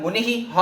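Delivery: मुनिः ending in an audible ह, like मुनिहि; visarga demo. Shown as a demonstration. Teacher showing the ह sound in मुनिः. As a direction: let the ह breathe out after मुनिः. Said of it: "ह की ध्वनि सुनाई दे रही है".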